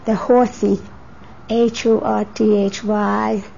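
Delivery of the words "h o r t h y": slow, letter-by-letter spelling; measured spelling, one letter at a time; spelled out. Real, not acted. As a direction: spell it out slowly for the record. Spelling out a name.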